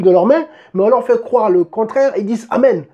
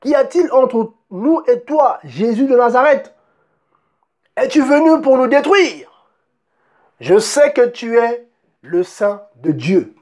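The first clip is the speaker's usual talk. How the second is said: slow, higher, drawn-out demon voice; a hint of a demon, slowed and raised; demon's loud voice; 3 semitones higher, slower than usual. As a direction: play the possessed man pleading with Jesus. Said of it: "Une voix forte en disant".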